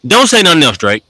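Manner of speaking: high, loud, gleeful taunting; excited outburst. Real, not acted. Talking to a rapper, gloating loudly and excited. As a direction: crow over a won battle.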